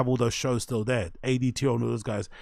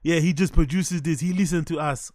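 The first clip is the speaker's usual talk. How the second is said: mocking copy of foreign-English accent; mimicked put-on accent. Host echoing the interview clip, mimicked accent. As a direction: parrot the accent, amused. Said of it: "speaking it to him in his accent".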